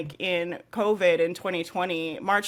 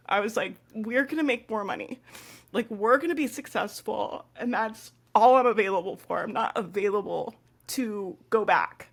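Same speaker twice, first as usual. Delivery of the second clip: crying; 3 semitones higher than usual. Real, not acted. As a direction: hold firm while choking up. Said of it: "I don't know why I'm crying about this".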